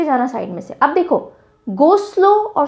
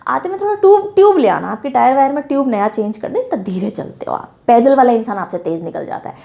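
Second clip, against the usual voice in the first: teasing taunt. Retold or imitated. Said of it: "ताना मारते हुए, मजाक करते हुए बोला".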